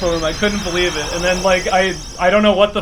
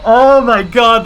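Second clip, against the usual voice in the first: slow elated; 4 semitones higher, 6 dB louder, much slower than usual. Real, not acted. Savouring the record.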